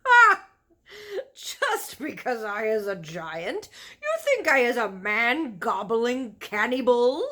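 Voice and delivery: big booming outburst from the giant; indignant giant roaring at the little girl; giant shouting. A narrator's reading. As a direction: bellow it as an offended giant. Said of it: "he shouted".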